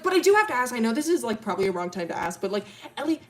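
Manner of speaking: loud start, high-pitched final question; excited rambling. Retold or imitated. Milo asking Ellie the wrong question, excited rambling. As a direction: blurt it, leaping up in pitch to ask. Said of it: "he starts talking, like, really fast".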